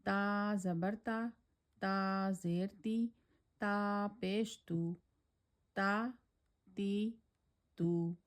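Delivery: ta said thin and light, tongue tip forward. Shown as a demonstration. Teacher demonstrating thin ta with vowels. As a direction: keep ta light and unemphatic. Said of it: "thin tone letter".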